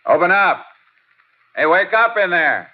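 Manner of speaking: loud call through the door; shouting. Acted. Calling out at dark house.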